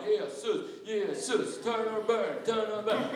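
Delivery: lightly voiced street preacher chanting "turn or burn"; mock street preacher. Preacher mocking a placard-carrying street preacher. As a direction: poke fun at a placard preacher. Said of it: "med plakat".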